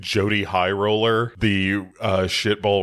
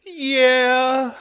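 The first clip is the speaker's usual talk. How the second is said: A singer agreeing; 5 dB louder than usual. Retold or imitated. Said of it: "And the singer is like".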